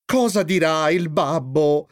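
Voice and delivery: slow words ending in a sigh. A narrator's reading. Mother dreading father's reaction, slow sighing. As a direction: sigh it out slowly, worn down. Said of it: "sospirò la signora Binda".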